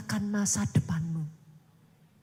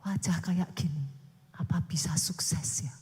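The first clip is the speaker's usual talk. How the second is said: doubtful self-talk; 8 semitones lower than usual. Retold or imitated. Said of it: "saudara sudah langsung bilang ya".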